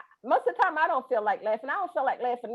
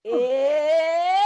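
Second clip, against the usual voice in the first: demo grunt; 4 dB louder than usual. Shown as a demonstration. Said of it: "you're gonna go".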